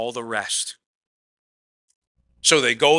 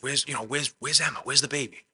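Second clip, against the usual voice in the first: panicked wife; 6 dB quieter than usual. Retold or imitated. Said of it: "your wife goes".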